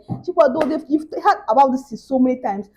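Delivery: mildly angry imitated mother's scolding. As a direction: imitate mom telling you off, insistent. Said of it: "She was so angry".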